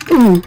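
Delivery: short strained ooh; effort grunt. Real, not acted. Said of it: "but not huge grunting".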